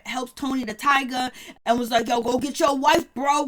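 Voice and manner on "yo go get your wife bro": loud, pushy "go get your wife" call; urging friend. Retold or imitated. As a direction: hype up a buddy to go after his wife. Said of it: "I never heard Zell sound so real".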